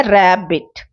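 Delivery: रैबिट in two separate beats, रै and बिट; syllable by syllable. Shown as a demonstration. Teacher showing students syllables, रैबिट split in two. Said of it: "दो बार में बोला रैबिट".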